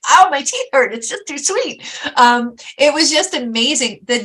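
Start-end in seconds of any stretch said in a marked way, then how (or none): 0.1-1.8 high, overly sweet teasing voice; a playful jab at too much sweetness; mock sugary reaction. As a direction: pitch it up, mocking how sugary it sounds. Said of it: "I was like".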